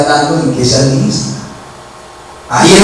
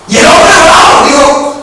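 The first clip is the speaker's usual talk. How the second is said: tag; 12 semitones higher, 4 dB louder than usual. Real, not acted. Preaches at full force.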